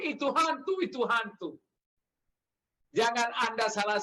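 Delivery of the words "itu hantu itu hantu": mock frightened cry. Preacher voices disciples seeing Jesus on the water, mock frightened cry. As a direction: imitate scared men mistaking someone for a ghost. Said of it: "mereka teriak karena takut".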